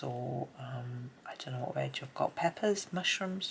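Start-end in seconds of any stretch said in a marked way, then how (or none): 0.0-1.1 soft unvoiced whisper. Real, not acted. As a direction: whisper it to yourself. Quiet aside while colouring.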